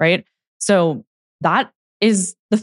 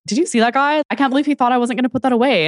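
retold indignant disbelief; 7 semitones higher, faster than usual. Retelling indignant remark to spouse.

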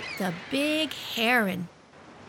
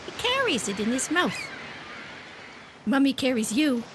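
put-on child-directed speech. Wife plays beach mother showing her child the birds, in lively child-directed speech. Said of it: "a really great use of child-directed speech".

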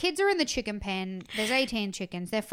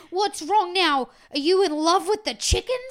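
mock shout; 8 semitones higher, 9 dB louder than usual. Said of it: "shouts at everybody".

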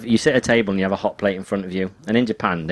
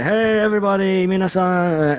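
cheery greeting; 10 semitones higher than usual. Retold or imitated. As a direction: greet the crowd like a beaming entertainer. Comedian greeting the queue.

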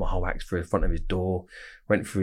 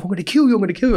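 higher and louder, mock shouted threat; imitating a threat yell; 12 semitones higher, 5 dB louder, faster than usual. Retaliating inmate threatening the speaker, imitated loud yell. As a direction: bark the threat back like the furious inmate. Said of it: "And he was like".

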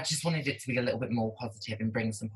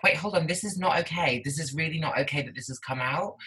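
higher-pitched, protesting self-quote; retold indignation; 6 semitones higher than usual. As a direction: act out realising something is wrong. Retelling own indignant realisation.

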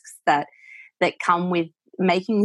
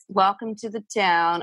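tentative Southern American Western accent. Shown as a demonstration. Voice coach trying out a Western accent for her client, lightly done. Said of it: "it's that Western accent, like".

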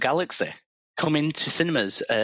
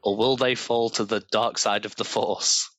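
space opera narrator. A narrator's reading. Reads AI story aloud.

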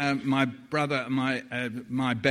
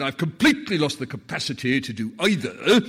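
imitated voice; 5 dB louder than usual. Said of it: "I'm playing with my voice at this point".

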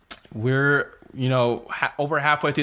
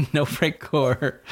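chuckling through the words, slowed right down; laughing repeat; much slower than usual. Real, not acted. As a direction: echo it with a laugh.

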